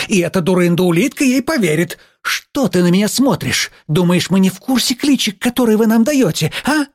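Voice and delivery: high, mocking teacher's tirade; worked-up indignation. A narrator's reading. Teacher mocking the pupils' supposed plot, indignant. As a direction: mimic the pupils' scheme, incensed. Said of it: "Она начала распаляться".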